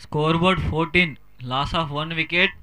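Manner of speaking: very slow, drawn-out announcer read; slow scoreboard announcement. Acted.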